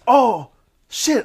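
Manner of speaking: very high, alarmed; realizing you ran over a deer; startled curse. Retold or imitated. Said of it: "and I was like".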